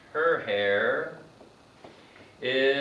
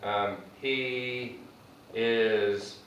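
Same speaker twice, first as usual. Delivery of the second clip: slow, stressed MORE in "more thankful"; slow model phrase; much slower than usual. Shown as a demonstration. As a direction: stretch "more thankful" out slowly for students. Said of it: "So what I do when".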